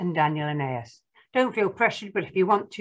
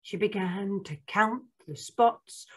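picture-book narration; 4 dB quieter than usual. Acted. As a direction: read it to small children, spacing out the count.

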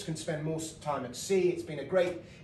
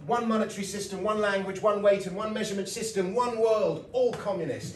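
higher and louder, building like a rally speech; mock ranting campaigner; 5 semitones higher, 5 dB louder than usual. Anti-metric campaigner rallying, mock rising rant. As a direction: rise in pitch and volume with each one.

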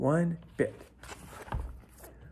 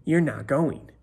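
sneering; 5 dB louder than usual. Acted. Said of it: "Bun Bun sneered".

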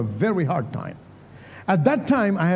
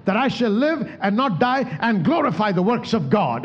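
bold declaring prayer; 3 semitones higher than usual. Shown as a demonstration. Models a word-based prayer.

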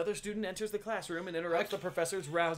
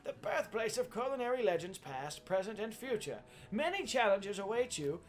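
proud headmaster welcome address; rally the new students grandly; rousing speech. Acted.

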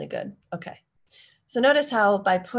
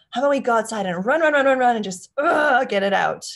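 energetic suggestion; 6 semitones higher, 9 dB louder than usual. Shown as a demonstration.

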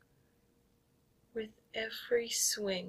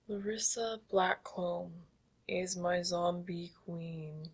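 zombie voice. Shown as a demonstration. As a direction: chant it like a mindless zombie. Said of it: "In the most monotonous zombie voice".

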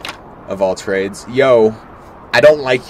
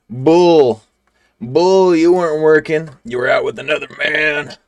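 loud, higher furious outburst; angry accusing shout; 5 semitones higher, 5 dB louder than usual. Acted. Wife yelling at her husband about working late, angry shout. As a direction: snap back in disbelief. Parents quarrel in game dialogue.

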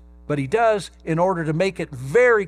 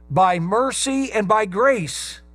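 "mercy" and "grace" rung out higher and louder, slow; proclaimed answer; 5 semitones higher, 4 dB louder, slower than usual. Shown as a demonstration. Preacher answering his own question, raised and slow. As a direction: announce it from the pulpit. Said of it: "How was Paul saved?".

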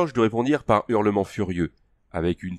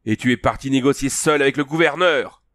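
hurlé plus haut, accusateur; hurlement de Lavguli; 5 semitones higher, 3 dB louder than usual. Acted. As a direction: hurler l'accusation, pris de frénésie. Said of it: "hurla Lavguli". (Lavguli hurle sa colère contre Conan)

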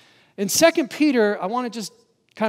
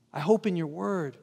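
I hope in your word, echoed softer; quiet echo of the verse for the congregation; soft reflective repeat; 3 dB quieter than usual. Shown as a demonstration. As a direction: let the verse sink in gently.

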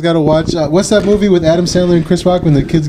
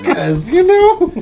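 mock New York accent.

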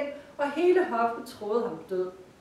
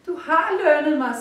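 lightly voiced nightingale; 6 semitones higher, 9 dB louder than usual. Nightingale answers.

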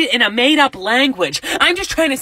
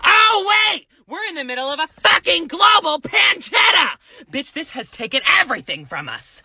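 mock sudden realization; 4 semitones higher than usual. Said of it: "and then remember".

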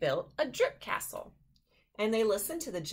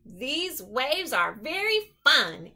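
slow teasing; 6 semitones higher, 6 dB louder, slower than usual. Acted. Goose finishing sentence.

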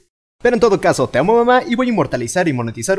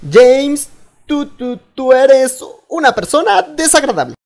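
higher, louder, slow fumbling comeback; sister's halting insult; 7 semitones higher, 5 dB louder, slower than usual. Retold or imitated. Sister awkwardly insults her brother back, higher and slow. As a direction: search for a nice insult and stammer. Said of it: "me regresaría el insulto y diría".

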